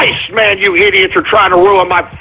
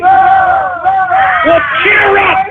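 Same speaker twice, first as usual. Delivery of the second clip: pitched-up clone; 6 semitones higher, much slower than usual. Acted. Cloned engineer voice.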